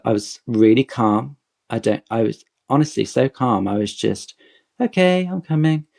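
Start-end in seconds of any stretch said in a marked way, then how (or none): 4.8-5.9 high, bright eager reply. Retold or imitated. Fan called up on stage answers, eager and high-pitched. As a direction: chirp it out, willing and excited.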